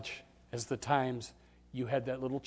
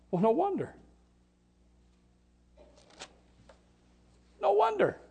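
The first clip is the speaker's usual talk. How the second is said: prophet's aside. Acted. Prophet's realisation voiced.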